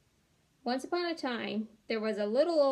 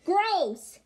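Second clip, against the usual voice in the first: put-on high, loud little girl's "gross"; little girl's disgust; 8 semitones higher, 8 dB louder than usual. A narrator's reading. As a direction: squeal it in disgust. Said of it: "said the little girl".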